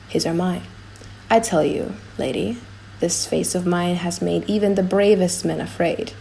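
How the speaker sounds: low, soft-spoken noble suitor; proud prince. Acted. Morocco's speech as character.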